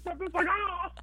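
high, excited whoop; excited yell. Retold or imitated. Friends cheering around him, high excited yell. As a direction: mimic everyone cheering. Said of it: "Everybody's like".

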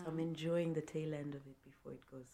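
hoarse from a bad cough; husky, sore-throat voice. Real, not acted. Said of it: "your voice is so sexy".

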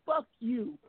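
mock-heated repeated curse, no shout; cussing everyone out. Man defending his respect to the group, retold cussing. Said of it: "I cussed everybody else".

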